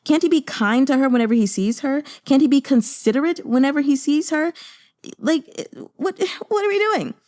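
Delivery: high, whiny mock of the nagging maidservant. Mocking the maidservant to viewers, high and whiny. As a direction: squeak it out like a fussy servant scolding. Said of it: "the maidservant is still like".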